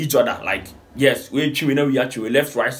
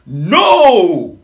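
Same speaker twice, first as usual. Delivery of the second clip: loud, higher burst of surprise; loud, higher shocked no; 6 semitones higher, 8 dB louder than usual. Real, not acted. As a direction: blurt it out in shock. Reacting to a comment.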